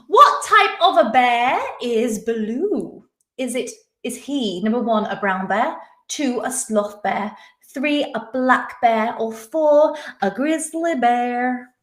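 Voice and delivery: slow quiz host read. Acted. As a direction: announce the question clearly. Reads quiz question aloud.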